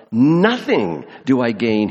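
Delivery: nothing drawn out and stressed, slow. Shown as a demonstration. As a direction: lean hard on "nothing", slowly. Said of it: "Now, this is emphatic".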